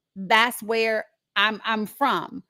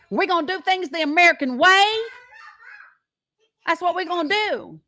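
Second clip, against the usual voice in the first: higher, louder mock Southern American accent; mock Southern patriot; 7 semitones higher, 3 dB louder than usual. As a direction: ham up a proud small-town Southern patriot accent. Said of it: "I'm not making fun of people who talk like that".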